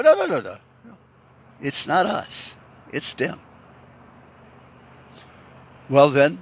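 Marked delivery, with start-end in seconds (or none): 0.0-3.4 defensive denial. Retold or imitated. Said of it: "stand back and go".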